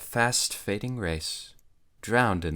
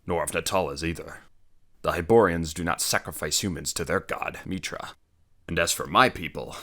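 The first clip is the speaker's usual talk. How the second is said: growling barbarian; 4 dB louder than usual. Acted. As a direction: growl it like a warrior. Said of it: "Conan growled".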